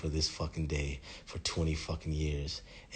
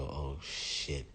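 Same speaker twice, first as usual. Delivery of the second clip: soft, sinking reaction; hushed oh-no; stunned realization; 3 semitones lower, 7 dB quieter than usual. Acted. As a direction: say it under your breath as it dawns on you. Acted reaction to a death threat.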